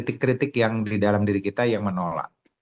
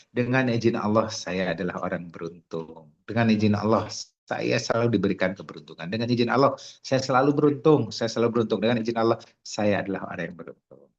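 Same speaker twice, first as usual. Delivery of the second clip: sincere affirmation. Shown as a demonstration. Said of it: "Nah, gitu".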